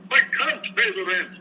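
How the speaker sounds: high, plaintive melodrama victim; pleading victim voice. Retold or imitated. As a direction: beg like the helpless tenant. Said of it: "where you do all the characters".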